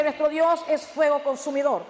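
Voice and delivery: slow, shouted proclamation of "fuego consumidor"; thundering pulpit cry; preached shout. Shown as a demonstration. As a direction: shout the verse out, slow and heavy. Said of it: "me dice".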